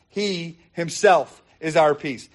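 slow, deliberate weight on "He himself"; "He himself" measured and emphatic. Shown as a demonstration. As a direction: separate and stress "He himself", then land the phrase. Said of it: "there's the emphasis".

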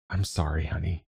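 soft, subdued fatherly apology; quiet apology. A narrator's reading. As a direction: say sorry gently, voice dropped. Father finishes grim confession to daughter.

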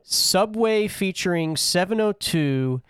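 slow, drawn-out announcer read; draft announcer. Acted. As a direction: announce the pick like a draft host.

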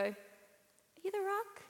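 high, slow, hopeful question; awed tentative question. Acted. Fan asking a big stranger who he is, awed. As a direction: ask it high and drawn out, hardly daring. Fan asks the supposed star.

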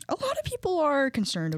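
hushed gossip whisper. Real, not acted. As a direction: lean in and whisper it. Gossip aside, unvoiced.

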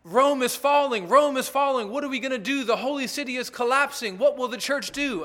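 retelling Jerome's letter to Augustine in mock terror; petrified Jerome. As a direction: voice Jerome's panic, hammed up a little. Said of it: "Jerome was petrified".

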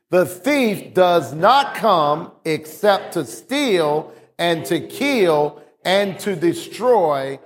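slow, measured read-aloud for a congregation; leading a scripture reading. Acted. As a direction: read it out deliberately, phrase by phrase.

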